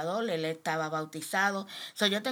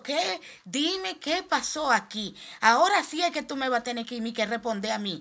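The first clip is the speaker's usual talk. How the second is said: much higher, louder tearful demand; crying out; 5 semitones higher, 4 dB louder than usual. Retold or imitated. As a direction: plead with God through tears. (reclamo a Dios llorando, muy agudo)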